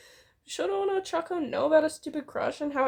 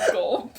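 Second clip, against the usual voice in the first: mock gulp; 5 semitones lower than usual. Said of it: "That sounds like a stomach growl".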